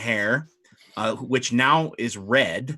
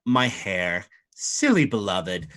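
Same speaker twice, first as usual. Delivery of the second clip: amused mermaid; 4 semitones lower, slower than usual. Acted. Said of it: "she says".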